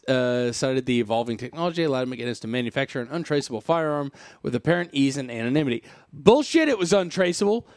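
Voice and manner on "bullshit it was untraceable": high, loud burst of disbelief; real scoff at the claim; scoffing outburst. Real, not acted. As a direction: blurt it like you can't believe it.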